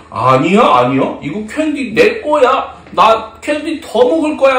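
lightly acted stubborn kid; mock childish defiance; refusing child. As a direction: dig in like a child guarding sweets. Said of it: "친구가 그러는 거예요".

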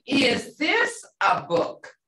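slow, rising question Is this a book?; question tune. Shown as a demonstration. Teacher demonstrating a question to students, slow questioning tune. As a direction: ask Is this a book? slowly with a rising end. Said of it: "wa at the end, you're saying".

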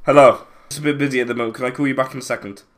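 quick, hushed phone brush-off; dodging a caller. Real, not acted. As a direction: rush the caller off quietly. Takes phone call mid-game.

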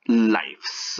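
"lives" drawn out with an "ai" vowel; noun pronunciation of lives. Shown as a demonstration. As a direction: say "lives" very slowly, like "laifs". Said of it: "otra cosa es decir".

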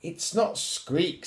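lightly voiced lioness correcting her cub; Mummy Lion. A narrator's reading. Mummy Lion correcting her squeaking cub, emphatic mother's voice. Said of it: "said Mummy Lion".

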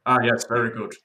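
host imagining the Pale King approving; mock king. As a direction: play a pompous approving king. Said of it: "the king is like".

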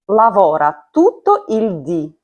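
dì said with the stress on the final i; Italian dì with final stress. Shown as a demonstration. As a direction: hit dì at the end of the phrase. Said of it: "Ді з наголосом це день".

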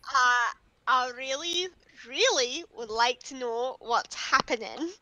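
quiet, measured begging; restrained pleading. Acted. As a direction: hold back exasperation and ask slowly. Character pleading amid the chaos.

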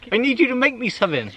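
high, hammed-up posh lord. Lord repeating his order to the carpenter, posh voice. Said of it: "It's my posh voice".

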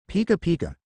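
high squeaky creature call; Pikachu voice. A narrator's reading. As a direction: chirp it like a tiny electric mouse. Pikachu speaks.

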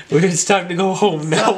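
words through a giggle; laughing while talking. Real, not acted. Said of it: "Stop it".

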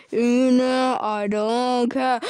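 slow loud crying yell; mock tantrum. Baby Bubbles having a tantrum, mock crying shout. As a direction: wail it like a toddler fit.

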